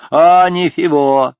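loud, slow lisping mumble; toothless mumble. A narrator's reading. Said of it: "прошамкал председатель".

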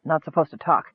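soft, sheepish mumble; mumbled apology. A narrator's reading. Kender mumbling sorry after blurting out. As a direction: mumble it like a scolded kid. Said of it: "he mumbled apologetically".

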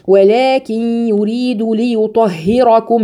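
slow tajweed recitation, thin ه; Quran recitation. Shown as a demonstration. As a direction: recite ليطهركم slowly. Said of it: "الهاء برضو رققيها". (تلاوة مرتلة بترقيق الهاء)

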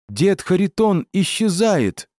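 испуганно, высоко и медленно; вскрикни от неожиданности. Acted. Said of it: "вдруг вскрикнул". (испуганный вскрик)

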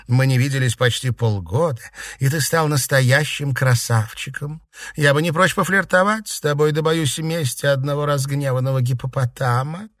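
lightly voiced teasing flirt; playful compliments with a mild dig; flirty Seraphima.

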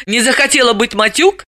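high, lightly amused question; hiding a smile. A narrator's reading. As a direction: ask it holding back a smile. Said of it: "скрывая улыбку".

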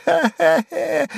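slow, high mocking laugh; shrill sneering laughter; high jeering cackle. A narrator's reading. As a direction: cackle in his face. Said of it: "пищал Сувенир".

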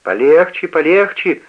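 loud urgent call, rising; shouting. A narrator's reading. Heinz shouts from the bed to calm father, loud. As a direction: shout to hold them back. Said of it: "кричит Гейнс".

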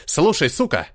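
рявк. Acted. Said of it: "рявкнул Рейджин".

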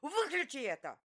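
very high, loud raging yell; screaming at him to switch it off; furious shout. Acted.

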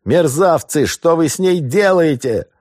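high, loud outraged shout; furious shout. Acted. Somov screaming at the robbers hurting his wife, high and loud. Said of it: "крик Сомова".

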